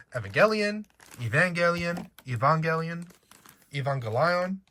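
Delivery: Evangelion said four ways, each a little different; pronunciation options. Shown as a demonstration. Quizzing viewers on how they say Evangelion, listing versions. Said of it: "So how do you say it?".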